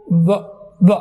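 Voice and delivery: و with rounded lips, no teeth; W sound demo. Shown as a demonstration. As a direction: model و as a W glide. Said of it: "دانت ہیں وہ lower lips کے ساتھ touch نہیں کرتے". (و، ہونٹ گول، دانت نہیں)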